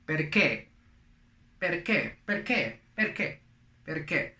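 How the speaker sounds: "Perché?" said "pair-KEH" in Italian; Italian pronunciation. Shown as a demonstration. Teacher repeats why in Italian, Italian pronunciation. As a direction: model "Perché?" with a hard k, stressed last syllable. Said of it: "in Italian, for instance".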